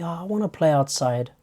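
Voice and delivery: soft, lightly voiced pleading child; kid seeking sympathy. Kid inside the house angling for sympathy, softly pleading. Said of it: "to try to get some sympathy".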